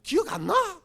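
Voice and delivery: a light little daughter's nagging; daughter's plea. Retold or imitated. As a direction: whine it like a little girl reminding her dad. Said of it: "우리 딸내미 하는 말입니다".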